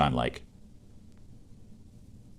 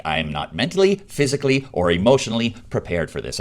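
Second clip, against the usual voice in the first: panicked; 5 semitones higher, 4 dB louder than usual. Retold or imitated. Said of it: "immediately I'm like".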